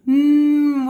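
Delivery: loud humming snake noise; snake sound. Shown as a demonstration. Swim coach shows kids snake bubbles, loud hum. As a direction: make a silly snake sound. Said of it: "blow bubbles like a snake".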